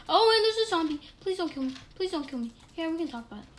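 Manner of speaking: high, pleading with a monster; terrified horror victim. Pretend. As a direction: beg the zombie for mercy. Pleading with zombie.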